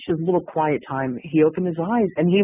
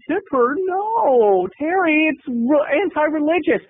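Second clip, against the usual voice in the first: higher, prissy protesting voice; prissy Kenny; 9 semitones higher, slower than usual. Retold or imitated. Kenny refuses to tip the dancer, higher and prissy. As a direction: balk at tipping like a prude.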